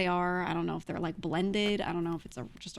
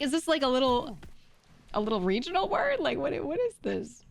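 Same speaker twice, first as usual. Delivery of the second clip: puzzled asking; 7 semitones higher, 4 dB louder than usual. Retold or imitated. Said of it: "So I'm like".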